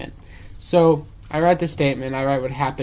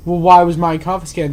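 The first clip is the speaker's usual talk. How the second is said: disgruntled patron; 8 dB louder than usual. Retold or imitated. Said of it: "the disgruntled patron".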